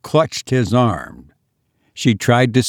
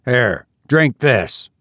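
rough; slower than usual. Acted. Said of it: "he said roughly".

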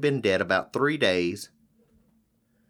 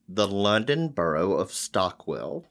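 attempted London accent. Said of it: "No, that's just Scottish".

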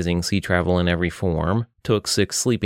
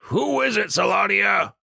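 high nasal-free gruff friend; 12 semitones higher than usual. Acted. Richter calls to Saladia from behind, high put-on voice. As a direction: call out from behind her as Richter.

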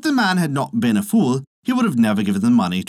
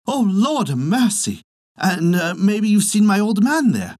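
put-on much higher, slow and eager old woman; excited old wife; 9 semitones higher than usual. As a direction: gush like a gullible old wife. Old wife hears of paradise.

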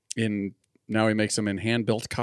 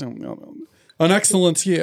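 posh voice; 5 semitones higher, much slower than usual. Pretend. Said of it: "good posh voice".

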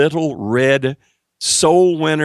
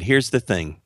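imitating a grave counselor, lower pitch; solemnly impress it on a new believer, voice lowered; very serious tone; 5 semitones lower than usual. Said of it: "very serious in this tone".

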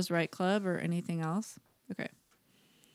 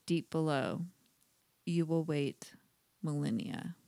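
poem reading. Acted. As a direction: read the poem with weight and pauses. Reads her poem aloud.

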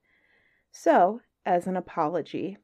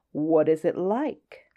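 whale voice; 2 semitones lower, 4 dB louder, slower than usual. Acted. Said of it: "said the whale".

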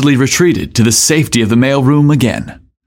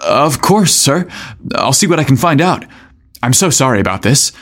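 panicked; 2 semitones higher than usual. Acted. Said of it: "Derek panicked at the frustrated tone".

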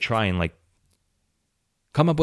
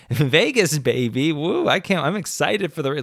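lightly mocking, a touch higher and excited; mock hype; 4 semitones higher than usual. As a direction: ham up a shallow cheerleader's enthusiasm. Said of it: "she's sort of like".

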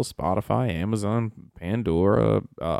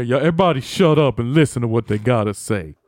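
loud mock order; imitated movie bluster; commanding the room; 6 dB louder than usual. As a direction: burst in and hush everyone. Acts character bursting in to hush room.

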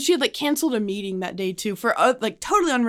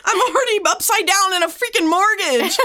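laughing mock rant; 8 semitones higher, 4 dB louder than usual.

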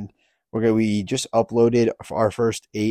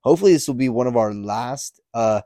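reading on autopilot, no energy; flat, bored podcast intro; monotone intro read. Real, not acted. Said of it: "Why are you talking so monotone".

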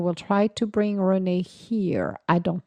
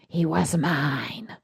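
mock sulk; much slower than usual. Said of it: "I'm like".

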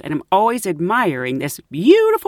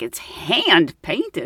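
very slow, stunned repeat; incredulous echo; much slower than usual. Retold or imitated. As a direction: draw out HAND PAINTED in mock disbelief. Repeats it back in disbelief.

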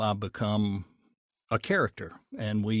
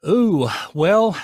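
high, loud, drawn-out ooh of surprise; surprised ooh; 8 semitones higher, 9 dB louder than usual. Real, not acted. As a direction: caught by the question, taken aback. Host asks a surprising question.

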